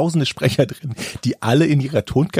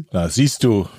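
deep speaker voice; 5 semitones lower than usual. Acted. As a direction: put on a deep seductive narrator tone. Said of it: "Was war das gerade, Jochen? Das war deine Sprecherstimme?". (tiefe, gespielt verführerische Sprecherstimme)

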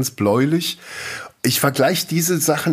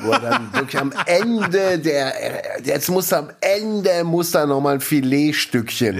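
laughing; 8 semitones higher than usual. Real, not acted. Joking about the dramatic twist.

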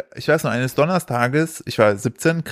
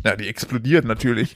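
deadpan imitation of dad; understated, matter-of-fact mock seriousness; bone-dry; 3 semitones lower than usual. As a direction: deliver the joke bone-dry, straight-faced. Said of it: "der so ganz trocken".

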